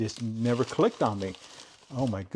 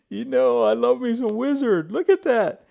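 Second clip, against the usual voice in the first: excited; 11 semitones higher, 6 dB louder than usual. Real, not acted. Delighted by the wizard tool.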